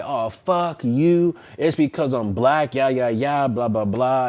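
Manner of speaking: slowly hammed-up rant of the stopped driver; imitated angry driver. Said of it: "She's like".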